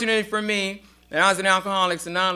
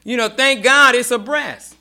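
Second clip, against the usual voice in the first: laughing; 7 semitones higher, 7 dB louder than usual. Real, not acted. Joking about surgeries.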